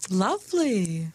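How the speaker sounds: unvoiced whispered praise; hushed approval. Real, not acted. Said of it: "whispered reactions".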